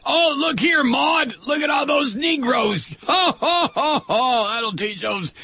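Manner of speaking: high, gloating hick voice with chuckles; mock redneck onlooker. Ranter mocking a bigot laughing at drowned New Orleans. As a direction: lampoon a smug bigot cackling at the flood.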